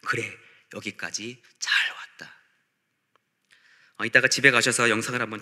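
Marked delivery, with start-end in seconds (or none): 0.0-2.3 tender reassurance. Retold or imitated. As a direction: quietly acknowledge someone's long struggle. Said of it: "이런 의미가 담긴".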